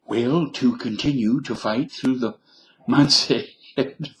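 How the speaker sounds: a hint of a folksy old actor president; Reagan impression. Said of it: "how about a Reagan accent?".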